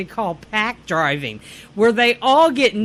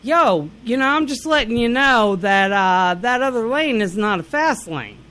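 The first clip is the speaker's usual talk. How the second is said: put-on Yankee accent. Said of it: "with a Yankee accent".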